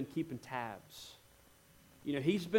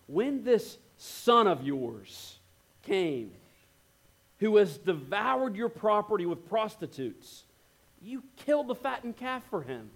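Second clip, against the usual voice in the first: bitter accusation; 4 semitones higher, slower than usual. Retold or imitated. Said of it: "Listen to the tone continue".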